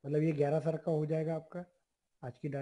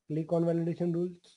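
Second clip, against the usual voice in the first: slow instruction; much slower than usual. Shown as a demonstration. Dictating the next step.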